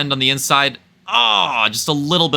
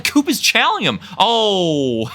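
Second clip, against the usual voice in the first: excited shout; 9 semitones higher, slower than usual. Real, not acted. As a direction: shout out the collision. Big collision in lead pack.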